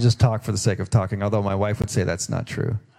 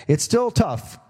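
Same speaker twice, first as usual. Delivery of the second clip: emphatic high; 10 semitones higher, slower than usual. Acted. Repeated line, first pitched up.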